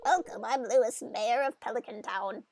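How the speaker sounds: lightly voiced old mayor; a hint of a stuffy town mayor; mild put-on mayor introduction; bad Lewis voice. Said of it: "the worst Lewis voice that was ever a Lewis voice".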